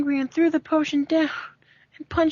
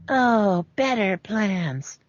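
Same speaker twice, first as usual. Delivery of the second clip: sinister; 5 semitones lower, much slower than usual. Acted. Gloating over villain's plans.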